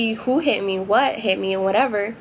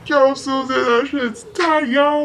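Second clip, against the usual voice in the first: hyped client voice; 3 semitones higher, slower than usual. Retold or imitated. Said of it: "those are the ones that are like".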